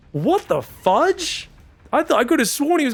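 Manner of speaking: surprised. Real, not acted. Caster surprised by fourth base.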